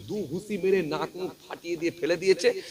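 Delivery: ordinary talk, nothing marked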